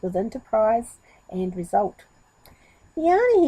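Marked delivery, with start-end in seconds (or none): 3.0-3.5 a loud high call up into the tree. Acted. Goat calling up to the monkey in the tree, loud. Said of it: "he called".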